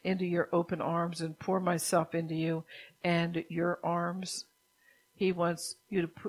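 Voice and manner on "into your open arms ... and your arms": God pleading to be let into their arms. Acted. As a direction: draw out the last words as a plea. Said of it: "see, he pleads with you".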